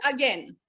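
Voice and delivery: "again" as a-gen, low and falling; right pronunciation. Shown as a demonstration. Teacher summing up the rule, again said as a-gen. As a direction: rhyme again with pen. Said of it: "You can only say again".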